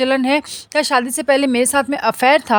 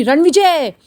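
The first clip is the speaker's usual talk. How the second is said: sharp call; 3 semitones higher, 4 dB louder, much slower than usual. Acted. Father stops Ranvijay from behind, calling out sharply. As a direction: call his name out sharply, a bit raised.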